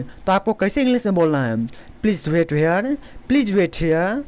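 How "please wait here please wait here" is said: very slow, deliberate model sentence; slow classroom demo; slow teaching delivery. Shown as a demonstration. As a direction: say it slowly so students copy. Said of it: "इस type से बोलना है".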